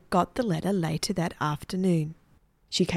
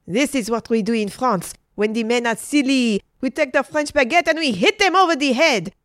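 higher voice, building louder; indignant Frenchwoman; 6 semitones higher, 4 dB louder than usual. A narrator's reading. Adeline explains how Frenchwomen treat silly men, indignant. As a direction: explain it with rising, feisty relish.

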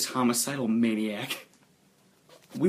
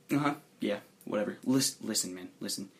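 low-key, trailing off softer; dismissive; 3 semitones lower, 4 dB quieter than usual. Acted. Player voices a friend waving off the question, dismissive. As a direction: brush it off, voice dropping away. Brushing off friend in acted quote.

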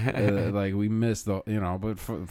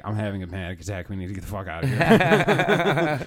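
panicked sober self; 7 dB louder than usual. Retold or imitated. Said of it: "Sober Sean is like".

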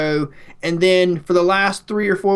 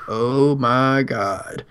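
awed; 5 semitones lower, much slower than usual. Retold or imitated. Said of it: "it was just like".

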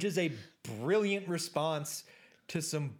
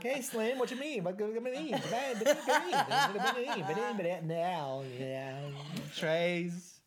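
a clumsy, laughing rapper voice that drifts off; half-laughing attempt at a rapper, falling apart; bad rapper impression; 2 semitones higher than usual. Host botching a rapper impression for his co-host, laughing. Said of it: "try to do an impression of Eminem".

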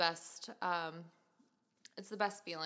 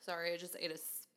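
chewing while talking; 2 semitones lower, 4 dB quieter than usual. Real, not acted. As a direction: mouth full of cherry. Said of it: "I just bit into a seed".

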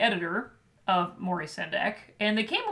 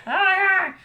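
laughing shout; 10 semitones higher, 5 dB louder than usual. Acted.

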